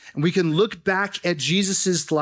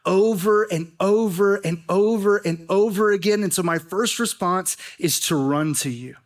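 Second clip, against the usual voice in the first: a touch of prayerful pleading; heartfelt prayer. Pretend. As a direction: pray it like you mean every word. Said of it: "Where we could say".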